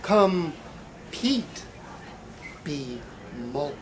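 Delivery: emphatic spoken-word delivery, punchy phrases with pauses; poem performance. Acted. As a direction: perform it like a half-ironic slam poem. Poet performs slam-style poem.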